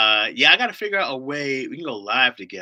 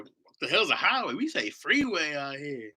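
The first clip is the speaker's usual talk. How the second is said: a slow, higher-pitched hint of a scoffing local; lightly voiced Angeleno setting him straight; scoffing mock correction; 5 semitones higher than usual. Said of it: "I was saying highway out here".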